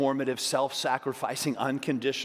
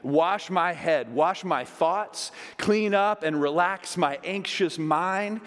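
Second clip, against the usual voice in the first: higher and louder, building into fervent prayer; impassioned plea; 7 semitones higher, 5 dB louder than usual. Pretend. Peter begging Jesus to wash all of him, fervent. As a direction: pour it out, begging to be washed clean. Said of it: "It says, Peter replied".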